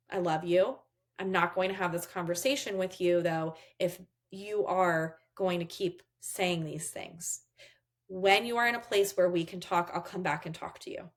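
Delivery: steady, measured limit-setting; calm boundary. Shown as a demonstration. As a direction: hold the line gently with your child, pausing between phrases. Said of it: "you're staying calm".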